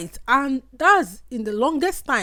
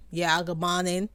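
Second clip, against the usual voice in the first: lower, put-on British greeting; a stiffly faked British accent; mock UK accent; 3 semitones lower, 3 dB quieter than usual. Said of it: "bring out that their U K".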